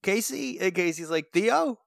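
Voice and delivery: high, straining mock call; mock bad phone call. Cohost acts out Theo and Casey's broken call, high and straining. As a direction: call out over a broken line. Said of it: "Theo's like".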